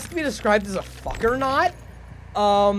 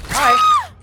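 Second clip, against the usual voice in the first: squeaky falsetto hi, much higher and louder; mock sweet hi; 11 dB louder than usual. Killer streamer teasing a survivor he just found with falsetto hello. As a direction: chirp a teasing hello way up high.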